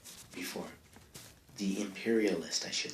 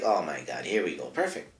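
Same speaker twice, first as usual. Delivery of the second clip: mock trader voice; 4 semitones lower, 4 dB quieter than usual. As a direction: lower and softer, a lightly voiced European trader. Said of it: "the whitey's like".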